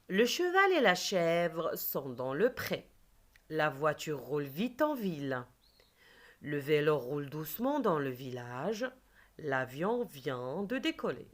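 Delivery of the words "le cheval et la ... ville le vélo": teacher reading a sentence to the class; reading aloud. Shown as a demonstration. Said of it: "Je lis des phrases".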